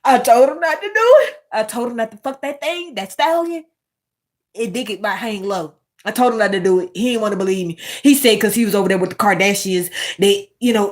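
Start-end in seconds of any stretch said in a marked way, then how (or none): 0.0-5.7 hammed-up father defending his son; a rapper's dad. Mocking a celebrity's dad defending his son, high mock-pleading voice. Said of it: "He shoulda said".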